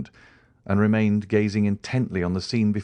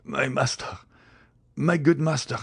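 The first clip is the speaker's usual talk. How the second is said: high, pleading cry to his master; anguished exclamation; 6 semitones higher than usual. A narrator's reading. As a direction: exclaim in desperate appeal, rising.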